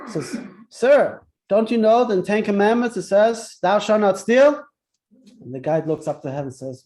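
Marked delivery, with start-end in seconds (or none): 0.7-4.6 raised, louder scolding owner, hammed up a little; a mildly acted angry orchard owner yelling at a thief; mock scream. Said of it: "screams at him".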